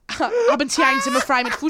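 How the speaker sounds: loud. Acted. Repeats German phrase, crying-shout.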